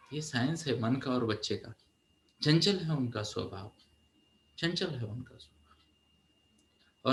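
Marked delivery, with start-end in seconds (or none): 4.6-7.1 slow breathy whisper of the same line; hushed, slowed repeat. Shown as a demonstration. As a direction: drop to a slow whisper for emphasis. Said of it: "repeated as whisper".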